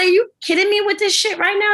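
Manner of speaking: high-pitched incredulous outburst; retold outrage. Retelling outraged reply to screener.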